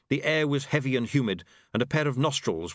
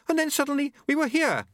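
babbling. Acted. Unity babbling to Susan after seeing a head cut off. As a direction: pour it out in shock. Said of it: "Unity babbled".

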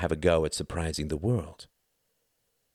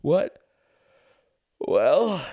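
a raised, louder man's voice; Quentin's voice; 11 semitones higher, 7 dB louder than usual. A narrator's reading. Husband to Ruth, lazily answering, louder voice.

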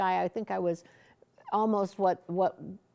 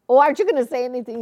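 pressing question; 3 semitones higher, 9 dB louder, much faster than usual. Retold or imitated. Pressing Oral for a reaction.

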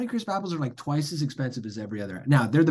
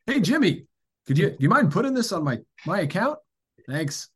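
higher, called-out mock request; breezy regular customer; 5 semitones higher, 3 dB louder than usual. Customer asking grocer for store credit, mock breezy. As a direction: hail the clerk like an old friend.

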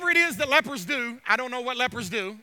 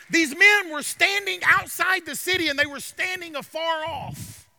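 raised, emphatic sermon delivery; preaching; 4 semitones higher, 5 dB louder than usual. Real, not acted. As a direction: proclaim good news to the congregation. Preaches with rising force.

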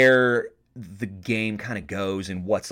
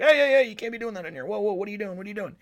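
barkeep scolding; 11 semitones higher, much faster than usual. Retold or imitated. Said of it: "the barkeep came over, was like".

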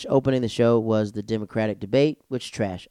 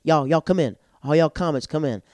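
raised, higher beckoning call; calling people in; 5 semitones higher, 4 dB louder than usual. Retold or imitated. Comic waves fellow comics into the party, calling out. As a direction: wave them in with a lifted voice.

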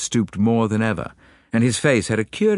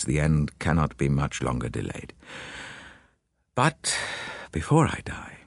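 grim father telling the detective of the family doom; lightly voiced doomed father; 3 semitones lower than usual. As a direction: speak as a weary man resigned to his family's curse. Hugo confesses his illness.

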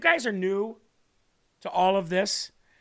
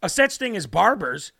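building louder, slower punchline; 5 dB louder, slower than usual. Acted. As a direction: land the punchline with force. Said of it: "Pastor says".

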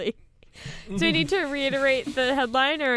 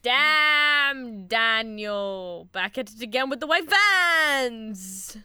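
drawn-out, loud catchphrase call; mock hype-man; 4 dB louder, much slower than usual. Host quoting a meme to co-hosts, mock hype-man. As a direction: stretch it out like a viral video quote.

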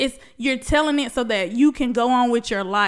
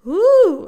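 high whoop; 7 semitones higher, 6 dB louder than usual. Real, not acted. Overwhelmed while sharing own story.

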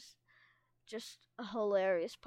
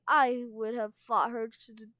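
louder, emphatic insistence; mock-dramatic protest; dramatic claim; 6 dB louder than usual. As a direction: stake your claim to the throne with force. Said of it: "She flapped her wings dramatically".

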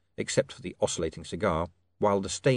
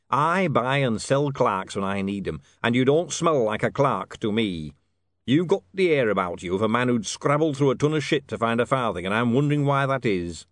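wary businessman king; 3 semitones higher, 4 dB louder than usual. Acted. King tells a visitor he doubts him, wary.

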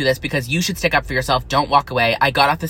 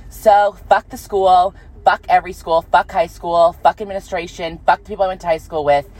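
angry rant; 2 semitones higher, 3 dB louder than usual. Real, not acted. Angry rant at former school.

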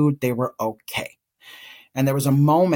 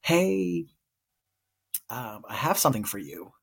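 hesitant, with a long pause after the first word; retold nervous voice. Aunt nervously offering nephew a letter, hesitant. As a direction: tentatively break it to them, mildly nervous. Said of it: "my voice shaking and just being like".

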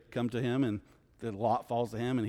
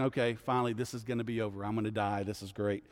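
low, quiet voice of giving up; sinking into soft resignation; resigned inner thought; 4 semitones lower, 5 dB quieter than usual. Acted. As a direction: think it aloud, relieved it's ending. Acted thoughts of Jonah facing death.

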